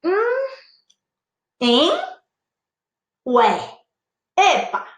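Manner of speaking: puzzled rising questions; confused little huh, each one separate; doubtful. Shown as a demonstration. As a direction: query it with a swooping rise. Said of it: "E uma dúvida".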